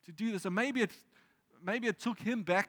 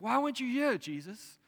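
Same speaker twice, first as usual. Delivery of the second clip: accusing; 6 semitones higher than usual. Retold or imitated. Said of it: "in a tone of accusation".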